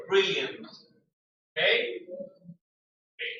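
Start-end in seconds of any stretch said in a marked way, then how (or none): 0.1-0.7 BRILLIANT with a stronger final N-T sound; strong NT ending. Shown as a demonstration. Teacher drilling the NT sound, strongly pronounced. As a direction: finish BRILLIANT on a firm NT. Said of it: "N T sound has to be stronger".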